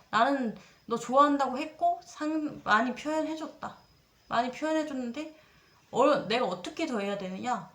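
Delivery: mock angry protest, slowing on the opening words; retold angry outburst. Quoting the guy angrily defending himself to her. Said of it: "막 이렇게 화를 내는 거예요".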